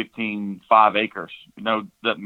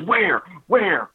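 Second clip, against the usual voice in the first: put-on high, loud eager child asking; mock-excited little boy, much higher and louder; imitating excited kid; 9 semitones higher, 4 dB louder than usual. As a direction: bounce it like a thrilled little boy. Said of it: "all excited".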